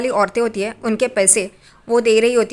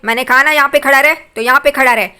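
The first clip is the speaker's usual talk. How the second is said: louder, quick mock command; imitated stern order; 3 semitones higher, 5 dB louder than usual. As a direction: snap the order at her son, retold. Mother orders son to stay. (बेटे को तेज़ और ऊँची आवाज़ में नकली हुक्म)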